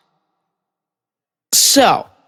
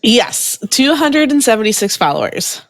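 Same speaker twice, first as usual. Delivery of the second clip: higher and quicker, proudly confirming; excited confirmation; 5 semitones higher, faster than usual. Real, not acted. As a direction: repeat the number with rising excitement. Confirms count to surprised listener.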